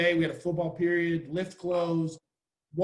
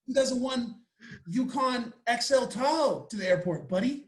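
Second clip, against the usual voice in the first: higher and louder, mock-proud comeback; sarcastic brag; 7 semitones higher, 4 dB louder than usual. Sarcastic brag to Californians about the family SUV. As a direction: ham up the fancy truck like a flex. Sarcastic retort to airport question.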